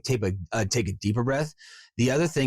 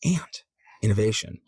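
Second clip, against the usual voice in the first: Jim Carrey. Shown as a demonstration. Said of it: "Jim Carrey in my head now".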